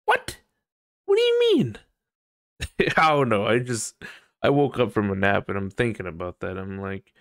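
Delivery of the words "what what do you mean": very high, squeaky mock confusion; mock squeaky disbelief. Mocking a bland compliment, very high squeaky disbelief. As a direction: squeak it out like a cartoon of total bafflement. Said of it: "Like, what?".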